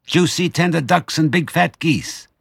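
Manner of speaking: high, greedy relish; excited small foxes' cry. A narrator's reading. Small foxes dreaming of a feast, excited high cry. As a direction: savour each treat in a high, eager voice. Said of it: "cried the small foxes, licking their lips".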